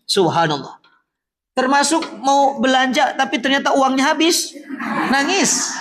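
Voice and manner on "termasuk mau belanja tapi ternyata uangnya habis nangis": laughing. Real, not acted. Joking about pilgrims crying.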